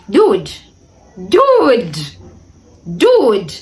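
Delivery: three incredulous dudes, rising in disbelief; exasperated. Retold or imitated. Retelling the late knock to viewers, exasperated disbelief.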